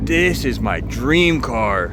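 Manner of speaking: slow, hushed amazement; slow awestruck. Acted. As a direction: breathe it out in awe. Buyer stares at the car, awestruck.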